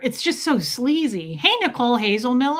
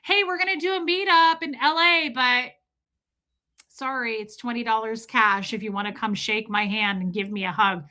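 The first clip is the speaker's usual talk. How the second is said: mock cheerful creator. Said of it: "I can't even say that without laughing".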